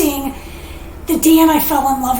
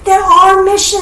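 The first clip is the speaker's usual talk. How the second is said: laughing through tears; 5 semitones higher, 5 dB louder than usual. Real, not acted. Emotional peak of her testimony.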